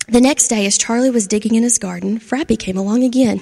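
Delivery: gentle storybook narration with voiced characters; reading to children. A narrator's reading. Storyteller reading to kids, lively and gentle. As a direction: tell it like a bedtime story to a class.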